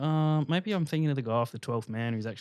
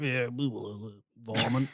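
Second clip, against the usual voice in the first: butchered attempt at a cricket commentator's accent; mumbled mock cricket commentator accent; Tony Greig; 5 dB quieter than usual. Co-host attempting the cricket commentator, butchered commentator accent. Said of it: "trying to be that cricket commentator".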